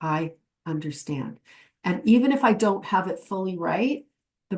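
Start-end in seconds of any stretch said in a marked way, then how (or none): 0.0-1.4 reassuring. Shown as a demonstration. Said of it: "it communicates".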